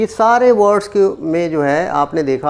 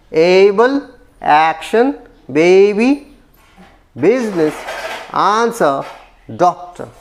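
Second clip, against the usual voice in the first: put-on Able, action, baby, business, answer, doctor, each stressed on the first syllable; word list: A-ble, AC-tion, BA-by, BUSI-ness, AN-swer, DOC-tor; much slower than usual. Shown as a demonstration. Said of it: "stays on the first syllable". (Able, action, baby, business, answer, doctor: हर शब्द के पहले अक्षर पर ज़ोर)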